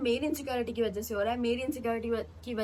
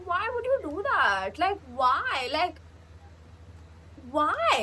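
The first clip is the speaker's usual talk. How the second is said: higher, pleading cry of why; distressed plea; 5 semitones higher, slower than usual. Retold or imitated. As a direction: heartbroken girl asking her boyfriend why. Retelling her heartbroken reaction.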